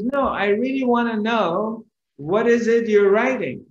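mildly acted nagging curiosity; persistent. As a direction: press to know, pitch lifted. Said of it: "he's very persistent".

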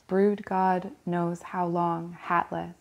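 even verse reading broken into short phrases; poem recitation. Acted. Reader reciting a poem about visiting a church, poem recitation. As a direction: set out each image with a small pause. Reads a Larkin poem aloud.

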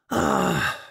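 put-on wistful old man reminiscing; nostalgic. A narrator's reading. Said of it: "with a nostalgic smile".

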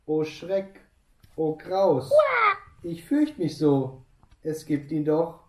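höher, gespielt verängstigt; ängstlich. Acted. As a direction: jammere voller Angst. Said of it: "da wird's einem bang". (gespielte Angst der Schlange)

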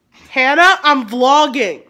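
loud call, slow on "vlogging". Real, not acted. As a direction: call across the room, drawn out. Calls out to Hannah.

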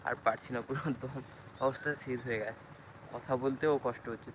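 panting after a long run; winded, gasping between words; out of breath. Real, not acted. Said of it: "তার জন্য পুরো হাঁপিয়ে গেছি".

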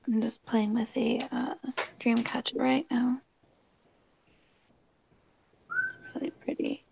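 whispering so roommates can sleep; hushed late-night whisper; quiet at night. Real, not acted. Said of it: "I'm talking quiet because my roommates are asleep".

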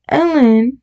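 high-pitched call, rising at the end; mock shriek. A narrator's reading. Woman in the crowd calls her lost child, mild shriek. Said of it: "shrieked the woman in the crowd".

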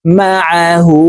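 "আ" pressed from mid-throat, "হু" held long; mid-throat ayn. Shown as a demonstration. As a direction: chant "মা আ হু" with a squeezed throat on "আ". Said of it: "হলকের মধ্যখান থেকে চাপ দিয়ে". ("আ" হলকের মাঝখান থেকে চাপ দিয়ে, "হু" টেনে)

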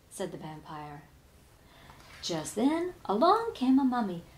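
usual speaking voice

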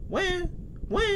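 short mock "wah" cries; fake baby cry. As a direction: let out little pretend baby wails. Pretending to be a crying baby.

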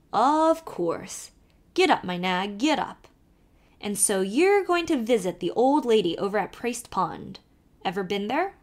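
put-on lively Irish accent, calling to the horse; old Irish driver calling out; Irish carter. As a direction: urge the nag on in a brogue. Kelly chats while driving.

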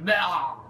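imitated gaping "ah"; mocking open-mouthed cry. Gamer showing viewers the character's mouth, mock cry. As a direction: mimic the odd mouth with a drawn-out cry. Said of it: "Look at it, he's like".

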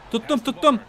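ordinary talk, nothing marked

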